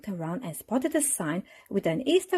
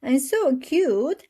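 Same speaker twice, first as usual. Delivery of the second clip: cried out; 9 semitones higher, 5 dB louder, slower than usual. A narrator's reading. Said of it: "cried the children".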